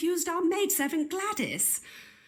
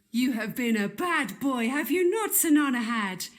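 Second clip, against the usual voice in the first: scolding a pet. Acted. Scolding her pet monkey.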